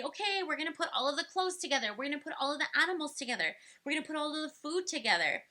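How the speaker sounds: put-on quick, bright guiding voice to a child; cheerfully sorting toys with a kid; talking a child through sorting. Shown as a demonstration. Parent guiding a child in sorting toys, upbeat and quick. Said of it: "and say".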